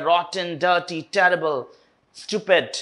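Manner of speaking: hard T's in "rotten, dirty, terrible, stupid"; slow "rotten, dirty, terrible, stupid", each T struck hard; hard T sounds. Shown as a demonstration. Teacher showing the T sound, "rotten, dirty, terrible, stupid" with hard T's. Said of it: "इसमें टी sound harsh किया गया".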